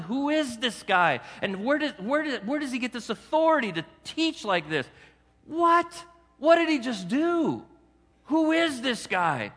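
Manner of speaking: as if you can't believe what you just saw; amazed crowd. Retold or imitated. Crowd member stunned by the healing, astonished.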